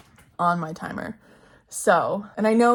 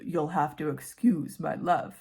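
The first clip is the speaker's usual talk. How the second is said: low Finn voice; 4 semitones lower, 3 dB quieter than usual. Acted. Reading Finn's line to the listener, low and slow. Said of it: "make my voice go lower".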